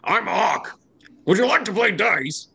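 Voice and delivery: high, guileless giant voice; eager giant Ock. Acted. Giant introducing himself and offering dice, high and eager. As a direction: pitch it high and cheerfully simple. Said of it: "And he says".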